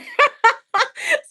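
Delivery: high burst of real laughter; loud laugh. Real, not acted. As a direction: break out laughing loudly. Laughing at her own comparison.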